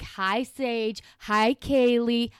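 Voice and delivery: drawn-out Boston aunt greetings; lightly hammed-up Boston accent; Boston aunt banter. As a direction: imitate a chatty Boston aunt. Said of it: "it's your Boston aunts".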